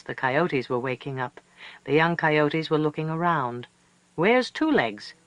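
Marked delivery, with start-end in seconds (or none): 4.1-5.1 coyote pups calling. A narrator's reading. Pups ask a third time.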